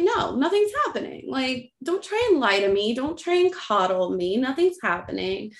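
retold insistent yelling. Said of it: "I started yelling".

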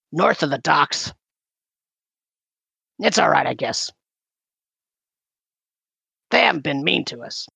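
lightly voiced character with long pauses; hesitant in-character answer, a hint of a put-on voice; Olgret voice. GM as Olgret telling where they are held, lightly voiced. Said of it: "make me do the Olgret voice".

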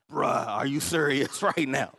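slow, loud, punchy disbelief; incredulous. Retold or imitated. Pastor to friend asking for prayer, incredulous. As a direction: draw it out, unable to believe the request.

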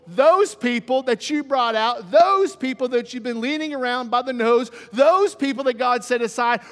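emphatic blame-shifting, mildly indignant; defensive Aaron. Acted. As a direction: deflect the blame, leaning on each accusation. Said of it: "instincts that we have is to become defensive".

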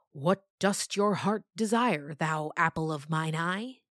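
put-on slow, stately old-timey speech; a hint of a grand olden farmer; old-fashioned farmer. Farmer asking his daughter, lightly voiced olden style. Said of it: "how they talked".

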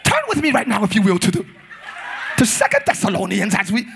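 mock English-accented preacher; affected English pulpit voice. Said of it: "you got an English accent 'cause you preach".

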